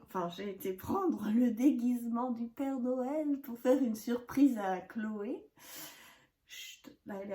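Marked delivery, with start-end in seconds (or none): 6.5-7.3 very soft shush; barely audible, keep it down; hushing. Real, not acted. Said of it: "Faudrait pas que je parle trop fort".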